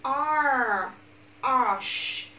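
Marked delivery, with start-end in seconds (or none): 1.4-2.3 "Arsh" with r running into a long sh; loud model "Arsh", pouted sh; r gliding into sh. Shown as a demonstration. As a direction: round the lips for the sh in "Arsh". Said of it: "từ âm R này các bạn sh, chu miệng luôn".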